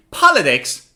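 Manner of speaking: "politics" falling away after a strong first syllable; stress on first syllable. Shown as a demonstration. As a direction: punch POL in "politics". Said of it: "on the first syllable".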